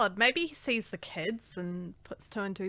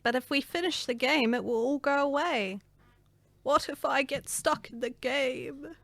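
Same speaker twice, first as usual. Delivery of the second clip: put-on old lady voice; 5 semitones higher than usual. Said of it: "I love the old lady voice".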